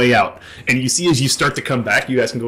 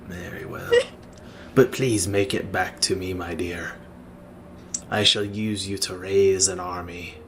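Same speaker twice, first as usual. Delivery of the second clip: low-key, measured commanding figure, slightly lower; solemn undead master; 5 semitones lower, 8 dB quieter than usual. Acted. Undead master sends Greta on an errand, solemn and hushed. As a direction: speak softly with quiet authority.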